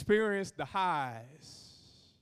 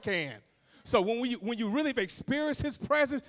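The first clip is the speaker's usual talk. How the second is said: driving, raised preacher delivery; preaching; 6 semitones higher, 6 dB louder than usual. Acted. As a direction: build the point with pulpit urgency. Preaches at full force.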